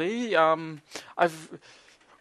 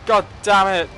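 frustrated curse; 4 semitones higher, 6 dB louder than usual. Real, not acted. Just died in game.

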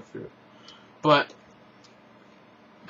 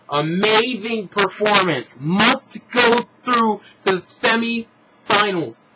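excited; 4 semitones higher, 3 dB louder, slower than usual. Real, not acted. Raving about magician.

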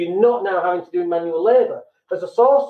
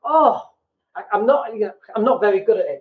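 syrupy, talking down with a pitying sigh; overdone pity for a brave little soldier; condescending sympathy. Shown as a demonstration. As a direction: pat them on the head with your voice. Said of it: "without sounding really condescending".

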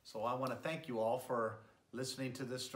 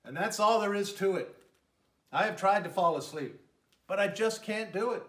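louder, higher grumpy bear complaint; roaring bear; 6 semitones higher, 8 dB louder than usual. Acted. Bear complaining to his friends he cannot sleep, louder. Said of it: "roars Bear".

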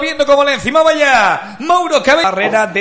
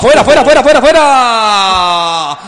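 loud, slow, laughing; laughing shout; 2 semitones lower, 7 dB louder than usual. Real, not acted. Shot goes wide.

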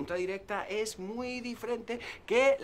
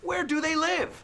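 direct question; 12 semitones higher, 3 dB louder than usual. Shown as a demonstration. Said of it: "Escucha la diferencia".

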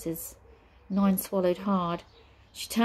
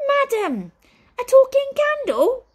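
much higher, louder, put-upon servant wail; groaning butler; 10 dB louder than usual. Acted. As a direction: whine it out like a harried butler. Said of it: "he groaned".

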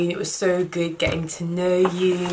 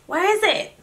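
puzzled search; 13 semitones higher, 4 dB louder than usual. Real, not acted. Searching again, louder.

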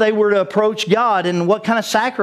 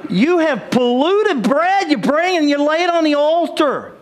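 high, slow, emphatic preaching as God; stern rebuke; 7 semitones higher than usual. Acted. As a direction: lay the charge out slowly and firmly, pitched up. Preacher voices God rebuking the priests.

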